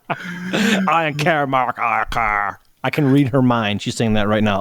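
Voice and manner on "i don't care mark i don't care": very slow, drawn-out bored whine; drawn-out bored wife. Retold or imitated. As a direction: stretch it out like you couldn't care less. Wife voiced, slow and dragged.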